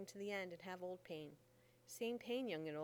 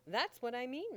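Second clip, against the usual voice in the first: loud, higher snapping back; loud retort; 4 semitones higher, 8 dB louder than usual. Acted. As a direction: cut him off loudly. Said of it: "Mammy said".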